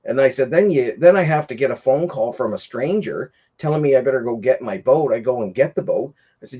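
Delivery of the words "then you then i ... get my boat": cursing him out. Retold or imitated. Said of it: "cursing him out".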